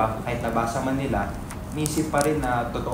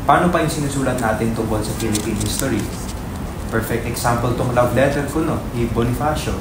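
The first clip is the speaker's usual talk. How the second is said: louder, pressing the point; heated insistence; 5 dB louder than usual. Acted. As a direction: argue it hard and earnest. Heated argument about truth.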